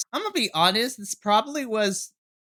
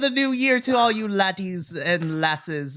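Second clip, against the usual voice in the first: attempted Irish accent. Podcast host greets listeners for New Year in a not-quite Irish accent. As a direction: have a go at a rough Irish lilt. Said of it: "that was almost an Irish".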